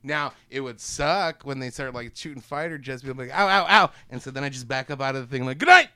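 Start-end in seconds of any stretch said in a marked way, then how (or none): 3.3-3.9 mock pain yelps. Acting being shot by jets. 5.6-5.9 high, loud showman's farewell; shouted sign-off. Acted. Kaiju backing away from fighter jets, shouted sign-off. Performer's exit line as kaiju.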